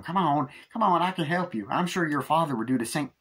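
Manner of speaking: high, put-on helpful neighbour voice; Flanders. Neighbour helping the family escape, high helpful voice. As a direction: coax them along in a high character voice. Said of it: "Flanders is helping them".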